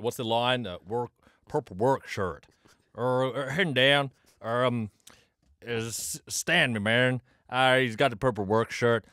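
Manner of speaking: lightly done Southland Kiwi; Southland New Zealand accent. Pretend. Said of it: "Now do a Southland accent".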